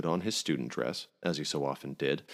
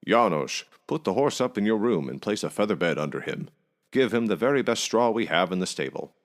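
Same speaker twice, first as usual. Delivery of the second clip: louder call to the stable hand; 4 semitones higher, 6 dB louder than usual. A narrator's reading. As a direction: call across the yard to Janos. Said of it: "called out to him".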